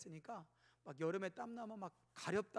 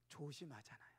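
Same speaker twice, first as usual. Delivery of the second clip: softer, falling; 5 semitones lower, 9 dB quieter than usual. Shown as a demonstration. Preacher reminding congregation after a ticket, soft and falling. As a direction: say it gently as a reminder. Repeating the point softly.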